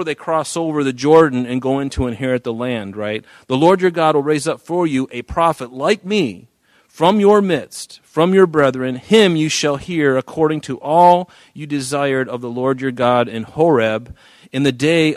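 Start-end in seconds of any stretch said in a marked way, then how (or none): 3.5-15.1 higher, emphatic Bible reading; scripture reading. Acted. Pastor reading Moses' words to congregation, emphatic scripture reading. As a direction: read the verse out to the congregation, voice lifted.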